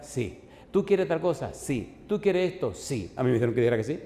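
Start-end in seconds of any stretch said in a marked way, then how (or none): 0.7-1.5 pitched high, punching the "tú"; eager question. Retold or imitated. President piling offers on the young man, high eager question. 2.1-2.7 pitched high, punching the "tú"; eager question. Retold or imitated. President piling offers on the young man, high eager question.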